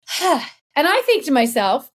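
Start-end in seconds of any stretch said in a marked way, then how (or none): 0.1-0.4 old man's puzzled sigh, imitated; imitated huffy sigh. Retelling an old man browsing the bookstore, imitated sigh. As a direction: act out a heavy "huh" sigh. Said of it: "crosses his arms and he's like".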